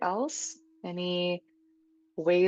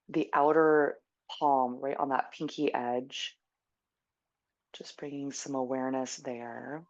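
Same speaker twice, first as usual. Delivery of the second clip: guided meditation. Real, not acted. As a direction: ease them gently into stillness.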